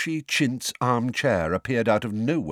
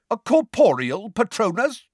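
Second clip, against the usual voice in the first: high, loud booming question; 5 dB louder than usual. A narrator's reading. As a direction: cut in with a booming voice. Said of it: "in a booming voice".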